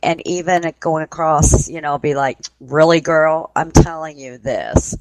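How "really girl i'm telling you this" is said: mildly sassy imitated spirit voice; slow down into a touch of snooty attitude. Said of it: "it gets really snooty with her".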